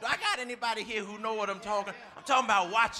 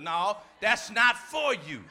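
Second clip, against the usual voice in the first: firm rebuke; 6 dB louder, slower than usual. Real, not acted. Preacher correcting the tempted.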